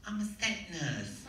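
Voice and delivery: high-pitched nurse character; set nurse. Retold or imitated. Nurse answering the actor's plea, high character voice. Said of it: "She goes".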